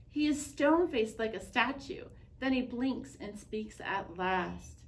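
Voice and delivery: put-on reading a picture book aloud to children; gentle read-aloud narration; story narration. A narrator's reading. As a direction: tell it like story time at the library.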